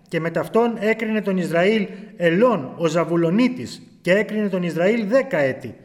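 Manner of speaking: solemn, measured reading of the Bible; scripture reading. Acted. Preacher reading Judges aloud to the brethren, solemn. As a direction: read the verse out with gravity.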